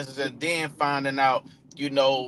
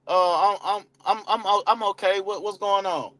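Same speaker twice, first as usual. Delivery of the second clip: low-energy lead; 3 semitones higher than usual. Retold or imitated. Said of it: "And Eddie say".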